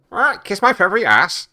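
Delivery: high, loud parrot squawk; cheeky parrot. Acted. Parrot insulting its new owner, high loud squawk. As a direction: squawk it back rudely like a parrot. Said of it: "And the parrot says".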